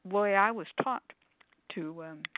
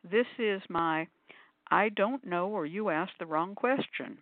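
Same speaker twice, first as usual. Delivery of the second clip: slow address to the pendulum; slower than usual. Shown as a demonstration. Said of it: "and I say".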